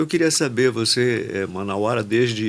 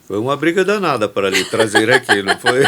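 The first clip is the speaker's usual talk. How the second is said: quicker, louder, laughing through the words; laughing tease; 6 dB louder, faster than usual. Real, not acted. Host teasing guest, laughing.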